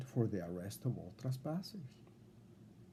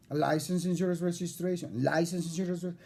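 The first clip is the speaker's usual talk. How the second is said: lightly mocked officer, higher pitch; a hint of a drilled-in academy recital; rote officer imitation; 5 semitones higher than usual. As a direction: parrot a memorized demand, pitched up. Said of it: "you sounded like this is all they told you".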